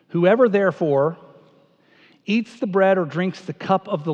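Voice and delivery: measured reading in phrases, with pauses; scripture reading. Acted. Preacher reading Paul's verses to the church, measured scripture reading. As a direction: read the verses aloud to the congregation. Reads the scripture passage aloud.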